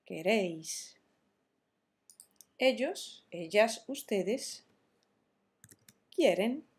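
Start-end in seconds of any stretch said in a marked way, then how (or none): 0.1-1.0 queréis with the stress on "réis", falling at the end; "queréis", final syllable stressed, then falling. Shown as a demonstration. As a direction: lean on the E in "queréis". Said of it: "acento en la E".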